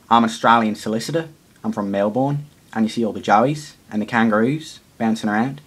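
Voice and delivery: a quick, weak try at an Australian accent; Australian accent attempt. Shown as a demonstration. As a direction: rattle it off fast in an Australian accent. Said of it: "now I'm gonna try and talk in an Australian accent".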